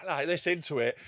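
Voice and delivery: voiceless whisper into the mic. Retold or imitated. Comic imitating the heckler whispering into a cut mic. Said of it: "he's like".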